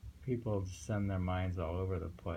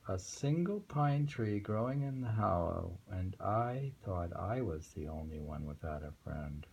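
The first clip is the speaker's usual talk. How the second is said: poem reading. Acted. Rereads the poem aloud.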